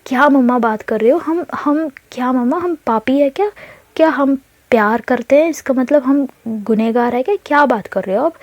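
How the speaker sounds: put-on teen snapping at her mother in disbelief. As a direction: push back hard, offended by the question. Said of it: "तो उसे और irritate होता है".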